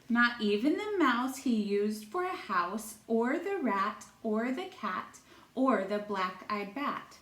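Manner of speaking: lilting singsong read-aloud; storytime reading. A narrator's reading. Teacher reading a rhyming book to children, singsong storytelling. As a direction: read it like a picture book for little kids.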